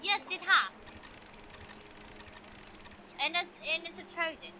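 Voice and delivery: mock Russian-accented tech caller; lightly put-on Russian accent. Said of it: "I like your Russian accent".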